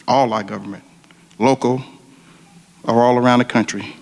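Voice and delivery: fervent spoken prayer, rising in waves on "dear Father"; earnest prayer. Real, not acted. Retired firefighter leading the crowd in prayer, earnest and fervent. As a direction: pray aloud for the firefighters and their families.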